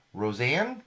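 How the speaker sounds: rising question on Roseanne; questioning rise. Acted. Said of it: "question mark".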